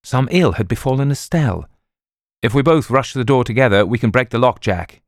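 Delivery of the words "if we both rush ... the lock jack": fast, louder, higher urgent plea; a man urging his host to break the door, desperate. Acted. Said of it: "he said desperately".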